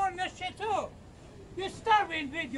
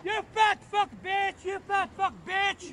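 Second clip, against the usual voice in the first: loud angry repeated yelling; shouting insults; 2 semitones higher, 5 dB louder than usual. Real, not acted. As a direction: bark the insults over and over. Man yelling insults at streamer.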